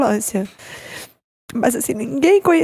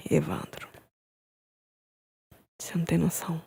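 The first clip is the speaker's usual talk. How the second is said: whispered, very soft, barely voiced; a doctor's hushed, unvoiced reply; 6 semitones lower, 11 dB quieter than usual. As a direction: breathe the bad news out under your breath. Doctor breaking news of death.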